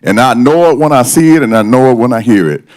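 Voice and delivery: usual speaking voice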